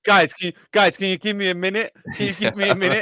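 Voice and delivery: mock polite killer. Killer asking the surrounding cops for a minute, mock meek.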